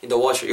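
"washer" stressed, "in the" light. Shown as a demonstration. Teacher advises learners, "washer" carrying the stress of the phrase. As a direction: put the weight on "washer", not on "in the". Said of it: "washer 부분에 좀 더 강세를".

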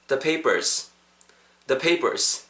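The papers with tense second P; model pronunciation. Shown as a demonstration. Teacher has learners repeat The papers with ㅃ-like second P. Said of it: "따라해보세요".

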